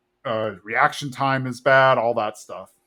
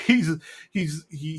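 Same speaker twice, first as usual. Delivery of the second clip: ordinary talk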